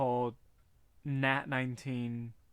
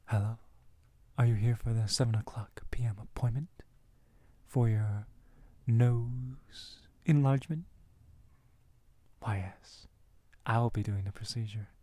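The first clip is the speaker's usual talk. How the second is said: hushed ASMR doctor voice, lowered; whispered asmr role play; 3 semitones lower than usual. Pretend. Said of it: "let me engage the audience in A S M R roleplay".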